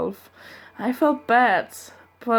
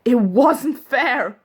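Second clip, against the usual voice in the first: mild mock scream; 4 semitones higher, 4 dB louder, much slower than usual. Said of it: "I started to scream as well".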